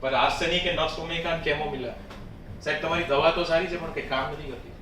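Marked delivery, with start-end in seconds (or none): 2.6-4.7 openly voiced complaint with a dig; mildly sarcastic complaint; sarcastic taunt. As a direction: deliver a quick, pointed taunt to the doctor. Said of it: "ક્યારેક ક્યારેક tone આવશે".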